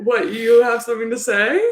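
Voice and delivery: slow, loud teasing challenge; mock challenge. Real, not acted. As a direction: call her out, playfully.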